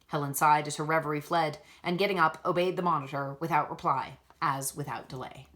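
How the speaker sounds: measured, even storytelling read; story narration. A narrator's reading. Reader narrating a classic novel chapter, steady storytelling voice. Reads Jane Eyre chapter aloud.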